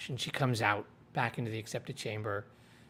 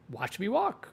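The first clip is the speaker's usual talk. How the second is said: higher-pitched defiant retort; retold defiance; 9 semitones higher than usual. Nynaeve answering the tower's warning, retold defiance. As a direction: toss it back as a mock-defiant challenge.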